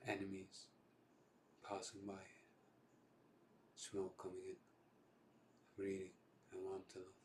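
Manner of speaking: subdued freestyle film monologue with long pauses; down, raw monologue. Acted. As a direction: let each war image land, then pause. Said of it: "it's a bit down and raw".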